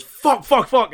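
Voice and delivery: very high, loud panicked swearing; frantic swearing. Acted. Melgrim running out at the party, frantic swearing. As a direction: spit out the curses while running. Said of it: "Melgrim comes running out and goes".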